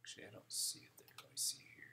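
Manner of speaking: hushed muttering while searching; whispered to self. Real, not acted. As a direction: whisper it under your breath.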